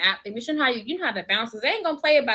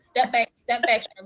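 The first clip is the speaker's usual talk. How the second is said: louder, firm warning; imitating a protective granddad; 5 dB louder than usual. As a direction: stand your ground for your wife. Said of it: "That's what he gonna say".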